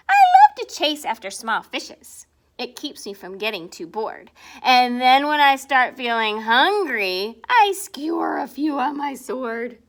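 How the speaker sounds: a hint of a proud swordfish; lightly voiced braggart; boastful swordfish. The swordfish boasting to the reader, lightly voiced.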